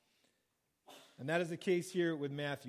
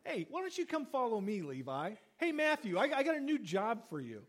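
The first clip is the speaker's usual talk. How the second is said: a friendly, breezy invitation pitched up; lightly voiced Jesus calling Levi; casual Jesus call; 3 semitones higher than usual. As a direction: call out lightly to the tax man. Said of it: "and went".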